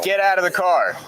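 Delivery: sharp order to exit; calm turning angry. Real, not acted. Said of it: "officer orders driver out".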